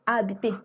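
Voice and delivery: Habité with no H sound; silent H. Shown as a demonstration. Teacher modelling Habité with a silent H. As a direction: say Habité starting on the A, H dropped. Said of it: "So don't pronounce it".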